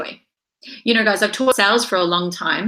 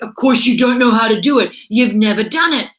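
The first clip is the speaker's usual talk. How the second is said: louder, emphatic comeback; firm retort; 6 dB louder than usual. Real, not acted. Coach to the listeners: firm, louder retort. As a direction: answer the fearful voice with force.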